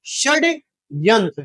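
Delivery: षड्यंत्र said very slowly, syllable by syllable; slowly spelled out. Shown as a demonstration. Teacher repeating षड्यंत्र for students, slowly spelled. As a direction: draw out षड्यंत्र for the class.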